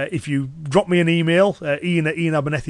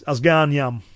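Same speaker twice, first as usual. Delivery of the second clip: Cumbrian dialect phrase; slower than usual. Shown as a demonstration. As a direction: say it as a Cumbrian local would. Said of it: "if someone in Cumbria was to say".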